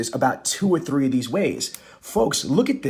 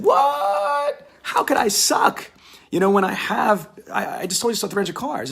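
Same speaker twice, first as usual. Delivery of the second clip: mock falsetto squeal, much higher; shocked squeal; 5 semitones higher than usual. Offended manager squealing back at speaker in mock falsetto. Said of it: "He said".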